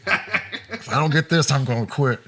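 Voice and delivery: Billy's running gag, laughing as he teases; laughing joke. Retold or imitated. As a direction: repeat the joke while cracking up. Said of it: "he was making jokes".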